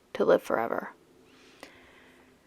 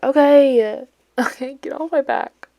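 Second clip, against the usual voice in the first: whiny defensive; 7 semitones higher, 8 dB louder than usual. Retold or imitated. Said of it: "defensive reply".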